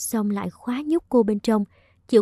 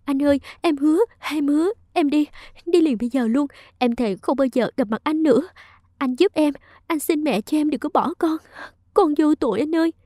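higher, trembling plea through tears; tearful pleading; 5 semitones higher than usual. Acted. Minh begs Long to save the baby, tearful and higher. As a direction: beg him as if crying in fear. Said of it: "vừa khóc vừa run bần bật vì sợ".

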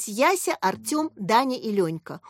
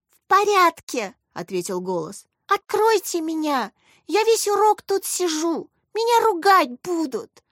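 put-on crying little boy; 8 semitones higher, 3 dB louder than usual. A narrator's reading. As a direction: plead like a small boy near tears. Petya voiced in cellar.

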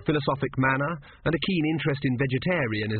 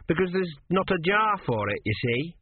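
put-on higher, earnest young lad; apprentice; 6 semitones higher than usual. A narrator's reading. Apprentice explaining to his master, higher and earnest. Gurn speaking.

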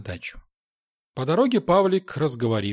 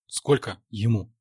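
curt. A narrator's reading. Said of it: "отрывисто спросил я".

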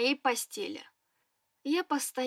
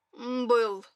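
melancholy; 2 semitones lower than usual. Acted. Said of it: "меланхолично напомнил мужчина".

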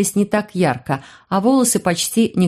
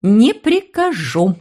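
higher, slow, spiteful refusal; vindictive; 4 semitones higher, much slower than usual. A narrator's reading. Mother refusing to call off the phantoms, vindictive and slow. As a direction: relish refusing him. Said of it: "мстительно заявила".

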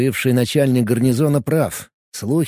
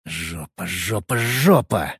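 building curse; 5 semitones lower, slower than usual. A narrator's reading. Rising cursing repetition.

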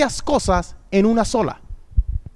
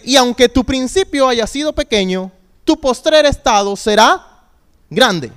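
lectura proclamada, algo más fuerte, "postrer" lento y subiendo; proclamando el versículo. Real, not acted. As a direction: anuncia "tu postrer estado será grande" con fuerza. (el pastor proclama el versículo a la iglesia, con fuerza)

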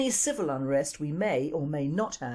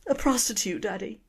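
a hammed-up tearful Irish confession; tearful Irish daughter repeating her confession; mock crying daughter; 5 semitones higher than usual. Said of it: "Girl crying again".

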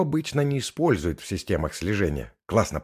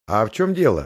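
wary; 3 semitones higher, 6 dB louder than usual. Acted. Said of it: "насторожилась Макс".

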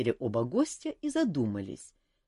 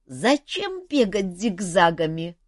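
slow, higher voice of a wheezing ghost; puzzled phantom asks, dragging it out; hoarse phantom; 5 semitones higher, 6 dB louder, slower than usual. Acted. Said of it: "знакомый простуженный голос".

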